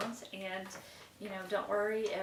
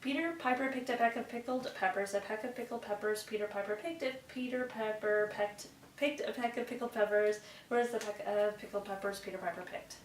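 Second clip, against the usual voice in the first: fast group recital. Shown as a demonstration. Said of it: "as fast as we can as a group".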